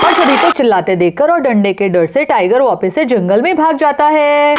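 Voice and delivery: story narration. A narrator's reading.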